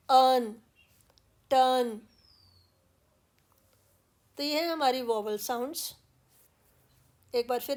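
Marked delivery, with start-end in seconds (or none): 0.1-2.0 अर्न and टर्न with a long, drawn-out vowel; r-colored a vowel. Shown as a demonstration. Teacher demonstrating the vowel before r, drawn out. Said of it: "तब हम symbol ये लगाते हैं".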